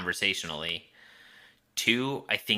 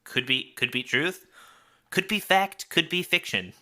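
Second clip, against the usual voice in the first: playful disclaimer; 10 semitones higher, 4 dB louder than usual. Real, not acted.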